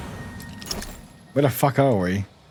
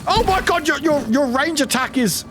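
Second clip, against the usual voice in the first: high-pitched shocked exclamation; real startled gamer reaction; startled outburst; 8 semitones higher than usual. Real, not acted. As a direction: react in alarm, voice jumping up high. Startled by an enemy's attack.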